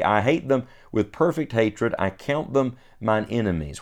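measured, solemn reading of King James verses; scripture reading. Acted. Reads verses nineteen to twenty-two.

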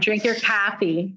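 put-on slow Hoosier-accented tease, "coffee" as "caffee"; teasing Hoosier accent with a fronted vowel in "coffee"; imitated Hoosier accent. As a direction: draw out a mimicked Hoosier accent. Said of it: "I have a Hoosier accent".

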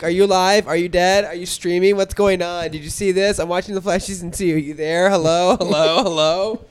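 shouting into a phone. Retold or imitated. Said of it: "that impression of her".

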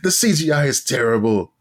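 put-on a loose, shifting Eastern European accent; lightly put-on Eastern European accent, drifting as it goes; vague Eastern European accent. Imagined Siegfried and Roy lamenting their decline, hint of Eastern European accent. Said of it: "almost Eastern European accent".

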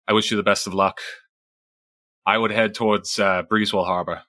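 lightly voiced Boston accent; JFK Boston accent. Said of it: "I'm starting to sound a little bit like J F K".

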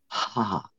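soft breathy ha onto the water; ha breath. Shown as a demonstration. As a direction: breathe out a quiet ha toward the water. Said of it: "Do the ha breath".

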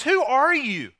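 mock-startled, high and loud. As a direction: jolt awake and demand it. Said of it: "And so he is startled".

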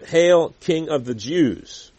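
mock hail. Soldiers mocking Jesus.

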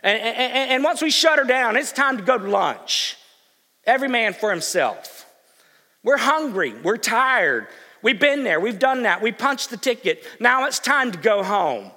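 loud, hurried mock grumble of folks wanting lunch; hammed-up impatient pew-sitter; impatient churchgoers. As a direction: play the restless congregation itching to leave. Preacher voicing impatient churchgoers.

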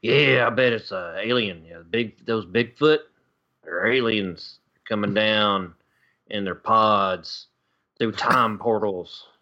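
lightly voiced alien theorist, drawn out; alien believer on TV. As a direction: play a slow-talking cryptid witness. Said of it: "the people who are like".

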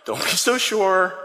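slow, smiling gentle warning; with a smile. Acted. Christ answering overconfident Peter, with a smile. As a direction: chide him fondly, drawing it out. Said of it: "think of Christ with a smile".

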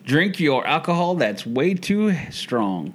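teasing. Acted. Teasing over drinks.

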